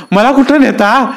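high, slow, frightened cry; terrified question. Acted. Fisherman, seized by the brothers, asks in terror where they take him. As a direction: panic as they grab you.

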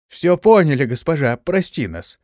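high panicked pleading; terrified squeal. Acted. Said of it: "они заверещали".

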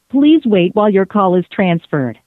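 normal talking voice

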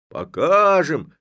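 loud, high slow cry; shouting. A narrator's reading. Lads answer Levko, shouting. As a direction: roar it together. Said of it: "закричали парубки".

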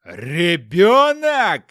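drawn-out, very loud yell; furious roar. Acted. Hopkin roars at his wife about the baby, furious yell. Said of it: "заорал он так громко".

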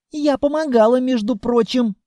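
pouting. A narrator's reading. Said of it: "надулось дитя".

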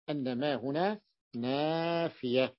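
slow, word by word, "أن ما هنا نافية"; slow emphatic repeat. Shown as a demonstration. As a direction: drag out "نافية" so it sinks in. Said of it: "لاحظتم بأن البيت المعنى هو نافية". (ببطء وتأكيد على "نافية")

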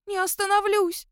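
высокий скулящий голос волколака; проскули, как обиженный пёс; скулит. A narrator's reading. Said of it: "скулил ему Дракулешти". (скулит на бегу, высоким голосом)

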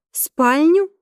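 can't believe what she hears; shocked disbelief. Acted. Vanessa shocked at bedroom idea.

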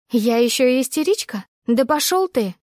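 indignant, rising furious retort; struggling against restraints. Acted. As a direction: jerk away and snap. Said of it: "Я снова дёрнулась в его руках".

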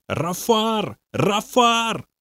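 high repeated demon cries; demon calling out. A narrator's reading. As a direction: call the name twice in a high, eerie voice. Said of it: "громко звать с помощью Бобби". (демон высоко выкрикивает имя)

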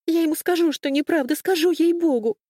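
high, loud, frantic vow; desperate promise. Acted. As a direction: swear it in panic. Desperate promise after whisper.

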